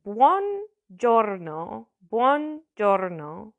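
slow, careful Italian accent; best Italian accent. Shown as a demonstration. Teacher introducing a greeting to beginners, slow Italian accent. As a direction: model it slowly in an Italian accent. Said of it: "I'm gonna do my best".

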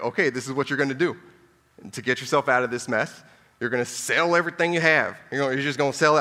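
put-on bossy radio host Dave Ramsey accent laying down the rules. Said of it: "I don't know if I'm doing his accent".

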